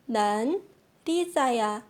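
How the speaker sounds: careful teacher model, 난 … 리자야; slow, word by word. Shown as a demonstration. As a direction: split 난 from 리자야 with a pause. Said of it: "Por exemplo".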